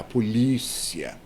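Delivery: "polícia" stressed on LÍ; penultimate stress. Shown as a demonstration. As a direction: lean on the LÍ of "polícia". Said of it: "paroxítonas, que seriam". ("polícia" com a sílaba LÍ tônica)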